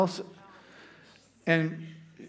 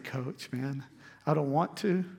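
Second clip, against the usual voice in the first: tearful plea; 2 semitones lower, 6 dB quieter than usual. Retold or imitated. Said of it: "And man, I'm crying".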